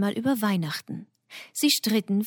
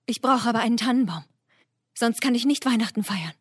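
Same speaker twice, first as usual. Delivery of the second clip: fast, higher eager deer; 4 semitones higher, 4 dB louder, much faster than usual. Acted. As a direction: rush it out like an eager little deer. Reh spricht.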